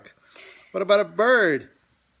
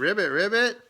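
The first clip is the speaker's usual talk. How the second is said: laughing ribbit; 5 semitones higher than usual. Shown as a demonstration. Parent echoes frog sound, laughing.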